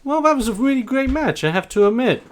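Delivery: high smug jab; smug champ. Acted. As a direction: land the insult with a grin.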